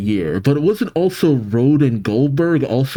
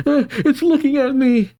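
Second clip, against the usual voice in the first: mild panic. A narrator's reading. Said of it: "Estrid panics".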